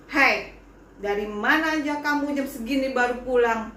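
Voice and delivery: mother yelling at her late daughter; angry scolding mother. Acted. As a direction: shout at the child for coming home late.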